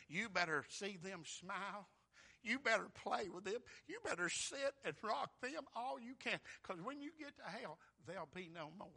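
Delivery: high, loud preaching swell; impassioned warning. Acted. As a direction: build into urgent pulpit fervor.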